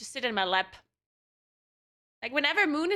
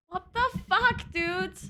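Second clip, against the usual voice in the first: a sudden, very high "what the fuck"; shocked high outburst; 8 semitones higher, slower than usual. Real, not acted. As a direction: blurt it out in shock. Cat chewing the camera cable.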